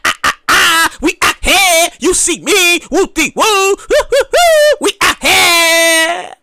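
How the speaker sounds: hyped-up party people whooping, stretched at the end; partying crowd. Retold or imitated. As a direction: play the rowdy partier calling out. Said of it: "They're like".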